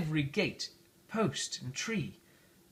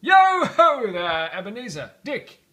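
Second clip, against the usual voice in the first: calling out; 7 semitones higher, 12 dB louder than usual. Acted. Fezziwig calls his apprentices to stop work, loud call. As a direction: hail the boys across the room.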